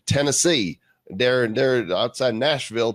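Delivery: put-on a clumsy stab at a Southern accent on Tennessee; bad Southern accent. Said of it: "That's not a good Southern accent".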